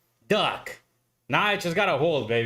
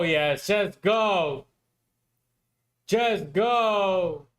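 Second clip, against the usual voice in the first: begging the chart to move, pitch climbing higher; pleading with the market; 3 semitones higher, much slower than usual. Real, not acted. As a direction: urge it on like a desperate fan, calling out "just go".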